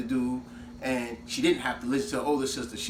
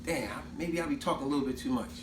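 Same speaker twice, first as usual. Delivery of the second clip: 1 inner thought; 6 dB quieter than usual. Retold or imitated. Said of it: "she realized".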